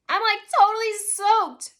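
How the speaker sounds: high, loud whiny moan; high-pitched wailing complaint. A narrator's reading. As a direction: moan it in dismay. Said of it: "Victoria moaned".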